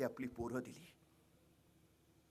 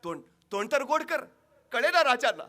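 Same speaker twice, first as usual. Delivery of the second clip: mother urging the king; 9 semitones higher, 10 dB louder than usual. Acted. Old mother urges the king.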